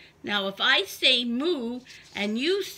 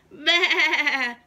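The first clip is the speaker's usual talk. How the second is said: bleating sheep voice; 3 semitones higher, 6 dB louder than usual. Acted. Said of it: "said the sheep".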